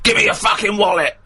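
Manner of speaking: mugger voice. Acted. Mocking park mugger intrusion.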